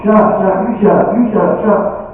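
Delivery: high-pitched, rapid-fire bickering; mock yelling. Husband and wife trading insults before the cop, mock yelling. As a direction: yell back and forth like a squabbling couple. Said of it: "they start yelling".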